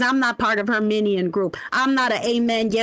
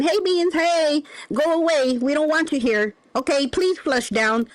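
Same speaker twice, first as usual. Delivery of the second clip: higher, slowed coaxing; mock shooing; 3 semitones higher than usual. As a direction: plead with it to go away. Shooing the turd away.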